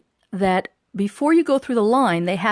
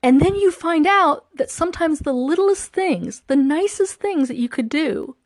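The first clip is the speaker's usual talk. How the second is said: real emotion welling up, voice pitched higher; choked up; 4 semitones higher than usual. Real, not acted. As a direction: speak while close to getting choked up. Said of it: "I'm gonna get choked up here".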